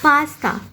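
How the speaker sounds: पास्ता split as पास, ता; two separate beats in पास्ता; syllable by syllable. Shown as a demonstration. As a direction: break पास्ता in two with a short pause. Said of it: "is called a multisyllabic".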